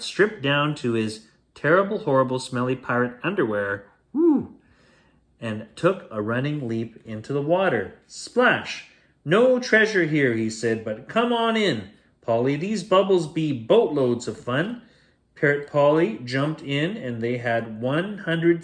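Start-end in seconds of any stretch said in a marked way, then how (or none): 4.1-4.5 high, loud leaping whoop; gleeful woo. Acted. Pirate leaps into water. 9.2-14.8 high, happy invitation; cheerful call. Acted. Pirate calls from bubbly water.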